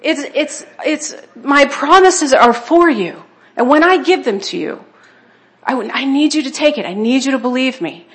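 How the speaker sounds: a lightly voiced God, gently insisting; voicing God. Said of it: "he's there going".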